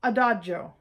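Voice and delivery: adagio, Italian dj; Italian pronunciation. Shown as a demonstration. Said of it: "Number two".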